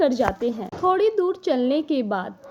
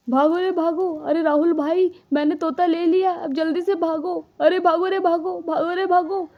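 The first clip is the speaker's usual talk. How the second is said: raised, frantic calls to run; mock-panicked cry of run, run; panicked shouting; 4 semitones higher than usual. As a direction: yell to your friend while fleeing in a panic. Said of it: "चिल्ला क्यों रहा है?".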